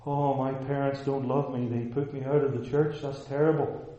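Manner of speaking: mock self-pitying complaint; lightly voiced aggrieved son; rebellious son. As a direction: play the hard-done-by son, slightly. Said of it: "a rebellious, false prophesying son would say".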